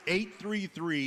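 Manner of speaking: talking with a mouth full of food. Real, not acted. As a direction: say it through a mouthful. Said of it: "Don't talk with your mouth full".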